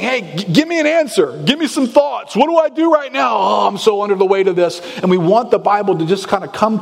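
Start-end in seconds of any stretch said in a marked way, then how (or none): 0.0-4.8 desperate plea. Retold or imitated. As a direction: cry out for an answer as if overwhelmed. Life screaming out for answers.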